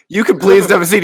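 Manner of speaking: imitating the polite way a waiter should talk; polite request. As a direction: offer the seat kindly. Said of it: "instead of, like, being like".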